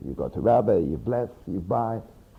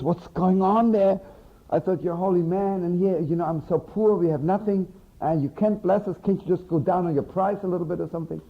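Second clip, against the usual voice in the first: raised pitch, a retold wail of protest; mock pleading outcry; 4 semitones higher than usual. Poor wife pleading with the holy man over his fee, mock outcry. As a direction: act out an upset wife, half-yelled. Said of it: "starts yelling and crying".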